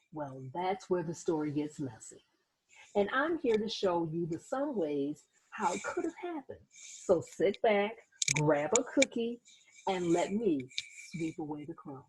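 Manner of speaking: put-on lively read-aloud voice for kids; storybook teacher voice; reading to children. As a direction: draw the little listeners into the story. Reads book intro to children.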